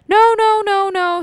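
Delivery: high, loud, drawn-out string of noes; acted loud refusal. Teller acts out the refusal to unhitch the trailer, loud protest. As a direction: cry out a mock protest.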